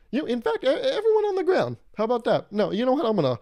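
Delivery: high, loud hammed-up holdup yell; comic stick-up shouting at the whole café; mock robber shout. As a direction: bark orders like a robber. Acting out a robbery.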